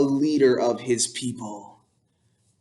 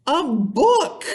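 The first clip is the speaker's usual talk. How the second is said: disgusted barbarian; 12 semitones higher than usual. Acted.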